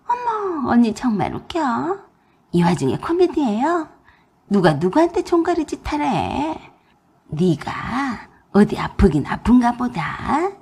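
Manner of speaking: high, scoffing mockery of a sister-in-law; mocking sneer. 시누이가 아픈 올케를 비웃으며 조롱함. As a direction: jeer at her like she's a joke. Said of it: "웃고 떠들어대며 저를 조롱했어요".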